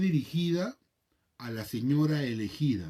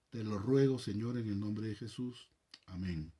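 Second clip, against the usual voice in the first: soft, hushed prayer voice; 3 dB quieter than usual. Acted. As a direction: pray humbly to the Lord, softly. Leads a prayer before study.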